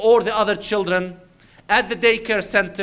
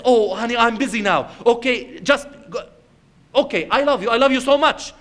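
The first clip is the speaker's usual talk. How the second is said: put-on mother brushing off child; 4 semitones higher, faster than usual.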